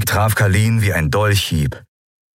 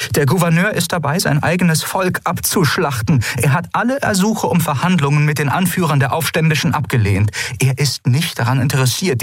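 higher, agitated outburst; snapping; 6 semitones higher than usual. Acted. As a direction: bite the words out in alarm. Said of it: "schnappte Andalok". (aufgebracht, schnappend)

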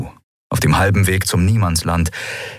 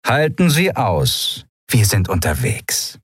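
slow, honeyed reassurance; captain purring to her victims; 2 semitones higher, slower than usual. Acted. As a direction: purr a false promise. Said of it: "schnurrte sie".

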